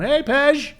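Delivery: high, loud call-out; retold police shout. Police with guns drawn calling him out, shouted. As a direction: imitate a cop shouting a name.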